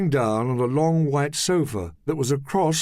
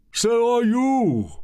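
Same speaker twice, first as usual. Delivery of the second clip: high, slow, louder shout; shouting back; 12 semitones higher, 4 dB louder, slower than usual. Acted. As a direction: fire it straight back. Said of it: "Duke shouted back".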